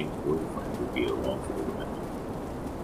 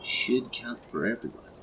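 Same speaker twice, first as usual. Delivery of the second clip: higher-pitched sassy comeback; pert, raised-pitch retort; 8 semitones higher than usual. A narrator's reading. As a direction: counter it with sass. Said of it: "Emily countered with sass".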